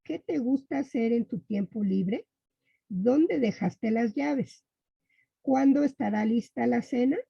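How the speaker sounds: each question read with a rising questioning tune. Shown as a demonstration. Teacher to students, reading example questions with a questioning tune. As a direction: read the sample questions as real questions, lifting at the ends. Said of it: "El ejemplo".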